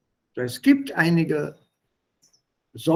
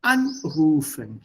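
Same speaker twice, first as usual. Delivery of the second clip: "Anrufen" drawn out slowly with weight on AN; stress on prefix; slower than usual. Shown as a demonstration. Teacher giving an example of a separable verb, prefix stressed. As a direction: stretch "Anrufen", stressing its first syllable AN.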